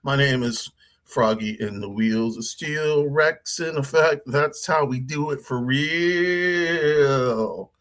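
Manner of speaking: high, hammed-up rapper MC; MC hype voice. Shown as a demonstration. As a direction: hype the crowd like a club MC. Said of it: "M C".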